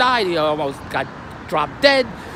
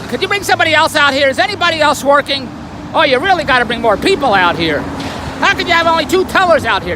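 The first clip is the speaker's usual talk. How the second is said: mock impatient customer hollering, louder; hammed-up complaint at the bank line; retold hollering; 4 semitones higher, 3 dB louder than usual. Impatient bank customer demanding more tellers, mock holler. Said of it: "And then he starts hollering".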